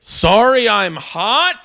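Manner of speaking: high, mock-outraged repeat of the excuse; incredulous echo. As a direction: throw it back in disbelief.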